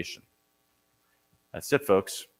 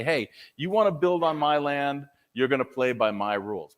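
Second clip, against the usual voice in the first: light New York accent, mock-tough landlord; lightly voiced New York landlord laying down the law; New Yorker; 4 semitones higher than usual. Old-style landlord tells builders his terms in a light New York accent. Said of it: "I really sounded like a New Yorker".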